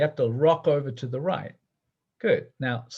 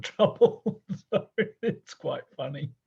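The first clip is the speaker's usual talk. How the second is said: laughing through the words; real laughing. Real, not acted. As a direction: giggle while you say it. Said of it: "I'm laughing because".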